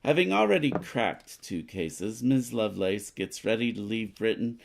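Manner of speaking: lightly voiced news report, read out steadily; a hint of a radio announcer; newspaper read. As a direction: read the card like a news bulletin. Reads newspaper card aloud.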